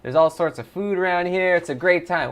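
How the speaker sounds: lightly voiced cheery rat; Jimmy the Happy Rat. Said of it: "Let's get a cheer voice on here".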